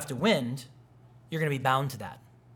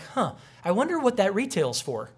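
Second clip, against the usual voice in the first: mock wondering; 6 semitones higher than usual. Landlord's mock wondering at the mess.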